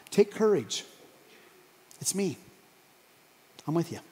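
soft, spaced-out reassurance; quietly steady them, phrase by phrase; reassuring. Acted. Jesus to frightened disciples on the lake, reassuring.

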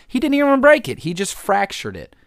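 high, loud disbelief at the injury; incredulous outburst. Real, not acted. Vlogger mocking a player's finger injury, incredulous shout. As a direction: squeal it in disbelief.

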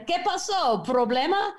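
high-pitched mock-innocent question; feigned Spanish speaker. Mother coming up to the farmer, feigning puzzlement.

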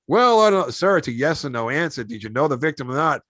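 a hammed-up detective interrupting the witness; pushy interrogation. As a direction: cut him off like a tough TV detective. Acted detective cutting Pacino off.

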